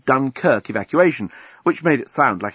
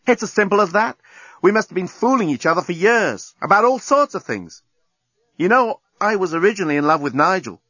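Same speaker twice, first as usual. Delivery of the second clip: a hint of a higher, frank woman's voice; Lucy, candid; 7 semitones higher than usual. Lucy confessing to Nettie on the beach, frank. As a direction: lay it out simply.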